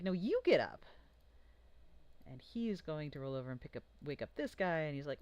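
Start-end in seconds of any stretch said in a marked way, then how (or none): 0.0-0.8 grumpy goblin. Acted. DM voices goblin waking another.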